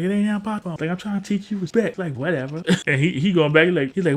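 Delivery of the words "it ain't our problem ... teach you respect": Bernie quote. Retold or imitated.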